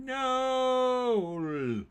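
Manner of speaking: sudden high cry of disbelief; shocked no. Real, not acted. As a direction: blurt it out, stunned. Shocked at actor's death.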